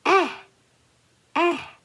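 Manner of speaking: short vowel "Ah" said high and drawn out; vowel sound ah. Shown as a demonstration. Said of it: "I'm gonna call you".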